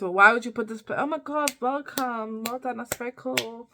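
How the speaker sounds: mock an angry, sarcastic telling-off; angry outburst. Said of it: "she gets very angry and says".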